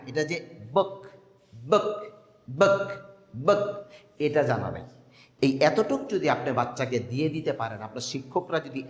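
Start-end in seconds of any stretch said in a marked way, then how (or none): 1.5-3.6 বক said short, no stretch; short book demo. Shown as a demonstration. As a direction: clip বক short each time. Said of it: "এখানে যে টান হবে না".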